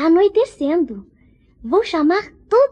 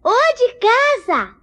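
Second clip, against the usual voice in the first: calling out; 4 semitones higher than usual. Acted. Knocking, calling at toy house.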